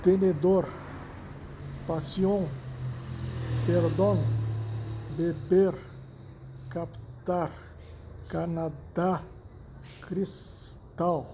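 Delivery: "Tenedor, pasión, perdón, beber, captar, Canadá, cristal" each stressed on the final syllable; stress on last syllable. Shown as a demonstration. Teacher listing Spanish agudas examples, final syllable stressed in "Tenedor" through "cristal". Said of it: "La sílaba tónica es la última".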